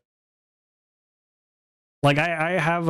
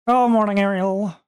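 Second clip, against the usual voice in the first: high, bright sing-song greeting; cheery greeting; 8 semitones higher than usual. Real, not acted. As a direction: greet them with a lot of cheer. Greeting a chat viewer.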